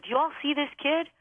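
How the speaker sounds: lightly put-on Brooklyn boss; Brooklyn accent. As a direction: quote him with a touch of Brooklyn. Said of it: "In his Brooklyn accent".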